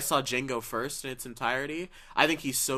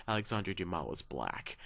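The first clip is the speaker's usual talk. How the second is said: disdainful quote; 5 semitones lower, 3 dB quieter than usual. Retold or imitated. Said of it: "the disdain that comes across".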